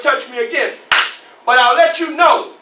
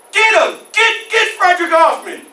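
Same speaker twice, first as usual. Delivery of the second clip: raised-pitch urgent shout; acted cry for help; 4 semitones higher than usual. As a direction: call out for rescue mid-fight. Master shouts for help mid-fight.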